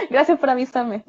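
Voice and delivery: laughing thanks. Real, not acted. Teacher thanking students for the tip, laughing. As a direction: thank them through a laugh.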